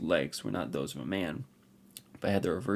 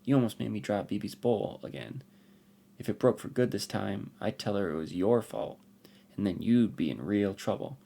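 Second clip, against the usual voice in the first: put-on a little girl's indignant scolding, a bit higher; scolding young girl; 5 semitones higher, 4 dB louder than usual. Girl warns the hidden stranger about Bibi's bowl, indignant. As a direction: tell him off like a cross child.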